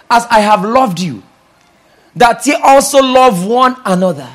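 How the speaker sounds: preaching. Acted. Preacher proclaims the verse.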